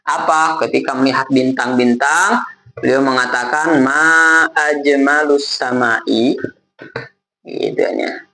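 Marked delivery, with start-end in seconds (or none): 3.8-6.4 "Ma ajmalus sama'i" drawn out slowly, a wrong vowel ending; slowly voicing the son's mistaken "Ma ajmalus sama'i"; wrong vowel quote. Teacher quoting the son's mistaken exclamation, drawn out slowly. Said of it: "ini salah harokat saja".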